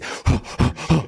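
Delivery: short, breathy huffs; imitated panting. Fan acting out a film moment, mimicked panting. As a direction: puff like the charging axeman. Imitates rider running with the axe.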